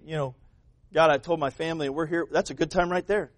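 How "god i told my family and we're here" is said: hushed, humble prayer. Acted. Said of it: "go to God and say".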